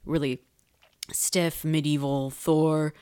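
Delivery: slow breathy whisper. Real, not acted. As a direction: hush the words slowly. Aside about Thor's old style.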